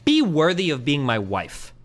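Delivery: slow, cold command; cold demand. Retold or imitated. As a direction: lay it down as a slow order. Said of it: "that's way different than saying".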